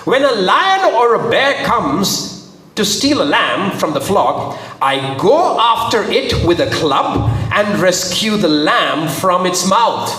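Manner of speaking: slow, emphatic storytelling; dramatic scripture reading. A narrator's reading. David telling Saul how he rescues lambs, slow and emphatic. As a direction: stretch each action out for weight.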